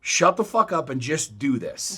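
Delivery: retold telling-off. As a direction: lay down the law, slowly and firmly. Retold telling-off of resistant kid.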